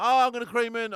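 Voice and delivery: high, loud wail of doom; mock panic, sure of hitting the water; panicked cry. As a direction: cry out that you're about to crash. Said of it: "So now I'm panicking".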